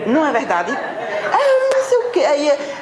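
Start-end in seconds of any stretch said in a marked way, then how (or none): 0.7-2.2 high squealing imitation of a yelling person; mock shouting person. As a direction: parody someone screaming back. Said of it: "Se a pessoa grita". (imitação aguda e risonha de alguém gritando)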